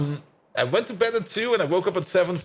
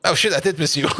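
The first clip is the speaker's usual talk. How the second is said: normal talking voice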